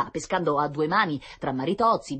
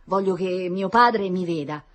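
lamento straziato; 5 semitones higher, 7 dB louder than usual. A narrator's reading. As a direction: wail your wishes like a heartbroken child. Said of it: "si lamentava Tonino, col cuore in pezzi". (piagnucolio acuto e disperato)

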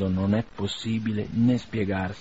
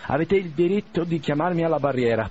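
raised, stiff voice of a proud wounded duellist; Pavel Petrovich's voice; 6 semitones higher than usual. A narrator's reading. Wounded duellist to Bazarov, haughty and raised. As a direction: play the haughty gentleman, pitched up.

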